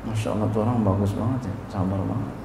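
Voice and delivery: soft, hushed praise of someone; hushed admiring onlooker. Retold or imitated. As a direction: murmur it like an impressed bystander.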